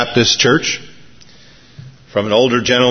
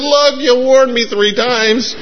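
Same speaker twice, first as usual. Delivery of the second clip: high, slow, emphatic comic retort; old gal's punch line; 12 semitones higher, slower than usual. Acted. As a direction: land the joke slowly, pitched way up. Old woman's punch line in joke.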